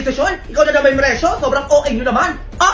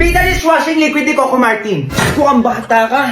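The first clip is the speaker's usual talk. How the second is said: voiced like a dishwashing ad; mock commercial read; product plug; 4 dB louder than usual. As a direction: pitch the soap to the household.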